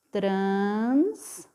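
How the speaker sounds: "transporte" drawn out with a rising tune; slow sounded-out word. Shown as a demonstration. Teacher modelling "transporte" for children, stretched out. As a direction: stretch "transporte" slowly, syllable by syllable. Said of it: "Então, a palavra fica".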